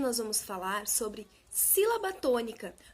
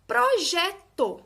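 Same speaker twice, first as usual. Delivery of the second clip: Projeto slow and loud, middle syllable JE punched; loud teaching demo of Projeto, stressed on JE; 4 semitones higher, 6 dB louder, much slower than usual. Shown as a demonstration. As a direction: stretch Projeto, leaning hard on JE. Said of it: "A sílaba que eu falo com mais intensidade é o gé".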